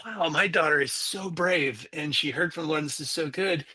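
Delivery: retold proud excitement, slowed for emphasis at first; excited. Dad thinking to himself on the drive home, retold excitement. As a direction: marvel at how brave she is. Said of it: "I'm all excited. In my mind".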